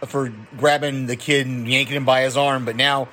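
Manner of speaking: ordinary talk, nothing marked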